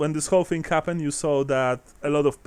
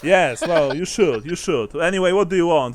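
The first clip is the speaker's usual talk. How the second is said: put-on southern accent; 3 semitones higher, 5 dB louder than usual. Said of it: "trying to do a southern accent".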